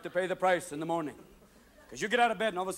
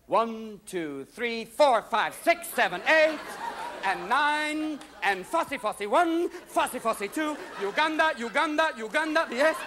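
put-on drunk counting; 3 semitones higher, slower than usual.

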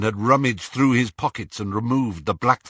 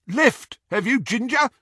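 jeering; 3 dB louder than usual. A narrator's reading. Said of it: "There was more jeering laughter".

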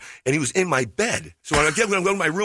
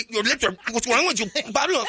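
high-pitched worried parent; 8 semitones higher than usual. Retold or imitated. Family questioning him.

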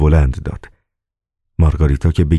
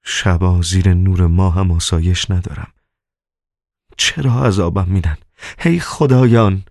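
muttered grumble; 2 semitones higher than usual. Acted. Master complaining to the moon, mild grumble. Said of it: "به لرزه افتاد و غرغر کنان گفت".

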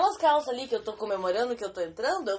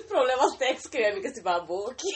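laughing; 4 dB louder than usual. Real, not acted. Talking through laughter.

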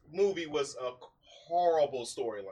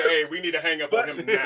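laughing mock. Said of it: "I was about to say".

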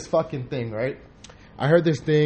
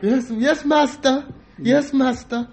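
high-pitched mock servant accent, came out sounding Asian; hammed-up servile accent, much higher; mock slave accent; 11 semitones higher, much slower than usual. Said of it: "I tried to do a slave accent".

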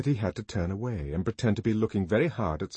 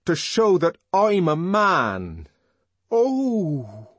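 slow, louder, proud ringing declaration; new resonance; 9 semitones higher, 8 dB louder, much slower than usual. A narrator's reading. Young man proudly defiant before the visitors, slow ringing declaration. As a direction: lift your chin and proclaim it. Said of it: "his voice suddenly took on a new resonance".

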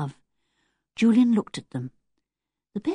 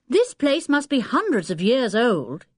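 calling down; 6 semitones higher than usual. Acted. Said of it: "he called down to the others".

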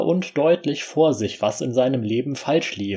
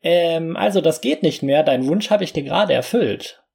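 high, squeaky little fairy; a tiny fairy speaking; 5 semitones higher than usual. Acted. Narrator voices the fairy.

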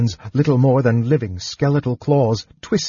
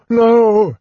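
high, loud, drawn-out cry; frantic high-pitched shout; cried out; 12 semitones higher, 6 dB louder than usual. A narrator's reading. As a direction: wail it in shocked denial. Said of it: "he cried".

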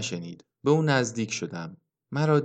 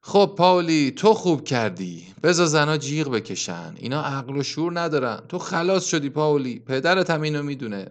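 shouting; 3 semitones higher than usual. Acted. Old man calling out to the drowned Pavli, shouting. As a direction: shout Pavli's name toward the water, then keep it raised. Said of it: "داد زد".

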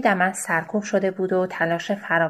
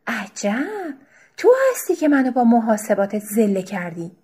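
sharp retort; 4 semitones higher, 5 dB louder than usual. Acted.

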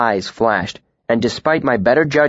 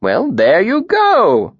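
slow, higher relieved tinker; 10 semitones higher, 5 dB louder, much slower than usual. A narrator's reading. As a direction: let out the relief slowly.

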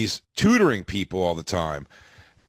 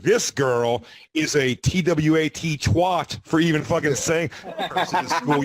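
slow scornful spelling-out; 5 semitones higher, slower than usual. Retold or imitated. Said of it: "I'm like".

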